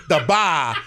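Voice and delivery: mimicking a Boston "bah", r dropped; mock Boston accent, vowel drawn out. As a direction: echo the Boston accent teasingly. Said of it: "we had a guy from Boston".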